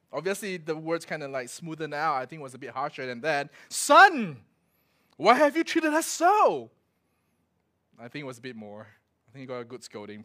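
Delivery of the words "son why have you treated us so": reproachful mother. Acted. Mother scolds Jesus.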